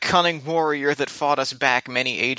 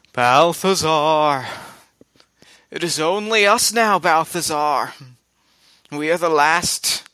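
booming ancient voice. Acted. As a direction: boom it out like an ancient foe calling a wizard. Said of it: "it just lets out".

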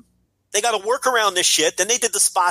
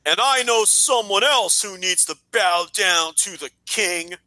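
arrogant heel; slower than usual. Retold or imitated. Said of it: "he says".

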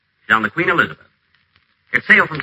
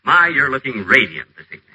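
suspiciously sweet. Acted. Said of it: "Mister Whiteside, don't you feel well?".

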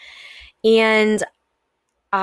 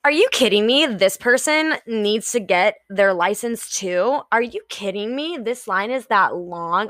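angry ranting. Shown as a demonstration. Acting out an impatient person in a line, angry rant. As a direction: vent like you're stuck in a queue. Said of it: "when I'm talking like that".

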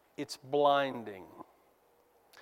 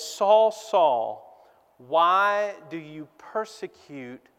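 a solemn calling voice, a bit louder on the name; the Lord calling; 4 dB louder, much slower than usual. Acted. Preacher voicing the Lord's challenge to Saul, solemn. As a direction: call out as the Lord confronting him. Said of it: "and says".

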